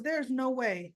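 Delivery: rough, strained throat after choking; hoarse voice. Real, not acted. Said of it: "I was choking earlier, y'all, so forgive my voice".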